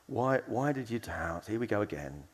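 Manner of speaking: slightly frustrated, tired of it all; long-suffering, resigned. Shown as a demonstration. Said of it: "kind of long-suffering".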